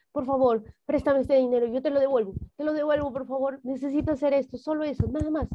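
a mild imploring appeal; pleading. Retold or imitated. Retells begging mother for money.

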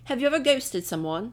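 amateur British accent; attempted British accent. Shown as a demonstration. Asking a friend about ghosting, trying British. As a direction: put on a British voice. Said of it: "I'm trying to be British".

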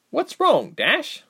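high, gentle coo to the horse. A narrator's reading. Reshma soothing her nervous horse, high gentle coo. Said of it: "Reshma cooed".

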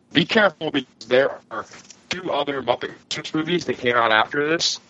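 glitchy robotic call audio; broken-up voice over a bad connection. Real, not acted. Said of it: "you are roboting it all over the place".

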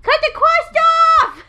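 put-on high whiny baby talk. Shown as a demonstration. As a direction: beg like a toddler. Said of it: "What if I talk like a baby?".

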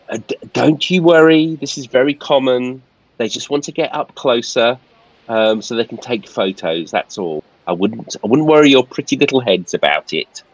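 lightly voiced reassuring steward. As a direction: soothe the ladies, a bit condescending. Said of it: "and Philpott says".

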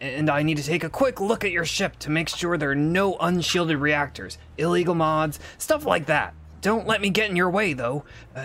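lightly voiced port mechanic. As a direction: lightly play a busy port inspector. Game master plays mechanic Nikost.

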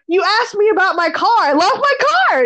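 high, rushed then emphatic; retold insisting. Shopper explaining herself to the lady, retold insistence. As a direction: imitate yourself insisting, pitch climbing.

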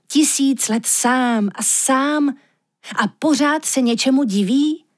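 lehce vyšší, naléhavý hlas soba, který vysvětluje; mírně naléhavý sob, vyprávěj o snech; sob Aurinko. Acted. Sob se vyptává lišky. (sob naléhavě vysvětluje lišce, co se mu zdálo, lehce vyšším hlasem)

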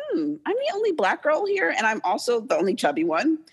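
sudden high hmm of realization, then settling; mock surprise as it sinks in; a lightly voiced inner thought; dawning realization. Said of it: "I looked around and realized".

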